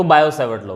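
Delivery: "बायो" ending on the open O, no T; silent T. Shown as a demonstration. Teacher gives the name as it is said, with silent T. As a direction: drop the T at the end of "बायो". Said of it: "वैसे टी silent होता है इसमें".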